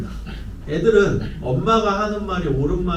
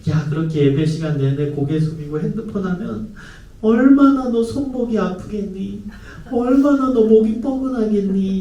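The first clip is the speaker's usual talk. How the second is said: sugary-sweet concern, slowed and a bit raised; overly kind; 5 semitones higher than usual. Retold or imitated. Pastor to phone-using teen, sugary concern. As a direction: lay on the kindness like syrup. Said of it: "아주 친절하게".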